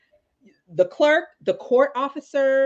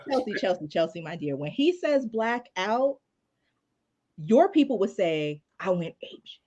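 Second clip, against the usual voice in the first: cookout translator; 2 semitones lower, 4 dB quieter than usual. Retold or imitated. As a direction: gently spell it out for a clueless colleague. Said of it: "the cookout translator".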